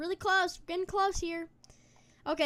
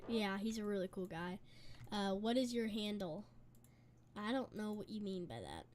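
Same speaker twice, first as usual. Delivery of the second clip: mouth full; 4 semitones lower, 11 dB quieter than usual. Real, not acted. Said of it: "Sorry if I'm eating".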